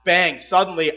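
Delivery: "suddenly" landed firmly after a punchy "bang"; stress on suddenly. Shown as a demonstration. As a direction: hit "suddenly" as an abrupt arrival. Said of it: "have the word suddenly emphasized".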